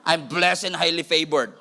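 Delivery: slowly, playing a proud churchgoer with attitude; sassy with accent and attitude. Shown as a demonstration. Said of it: "With an accent, with an attitude, with an eyebrow".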